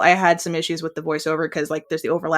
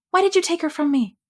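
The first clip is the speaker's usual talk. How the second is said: higher, acted anguished question; 10 semitones higher than usual. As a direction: hurl the question at her. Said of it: "bad impression voiceover".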